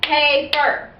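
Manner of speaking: Paper split into two syllables, Pa-per, each one clapped. Shown as a demonstration. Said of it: "to clap it out".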